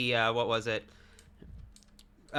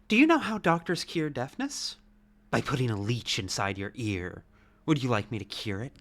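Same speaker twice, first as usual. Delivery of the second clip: sinister doctor voice; 3 semitones lower than usual. Acted. In-game doctor role.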